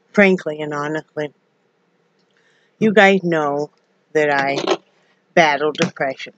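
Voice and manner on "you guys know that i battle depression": shaky voice. Real, not acted. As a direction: voice trembling a little. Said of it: "Sorry about the shaking".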